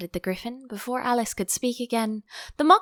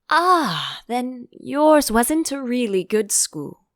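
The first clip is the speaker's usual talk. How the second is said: relieved; 4 semitones higher, 6 dB louder, slower than usual. Acted. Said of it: "in a tone of great relief".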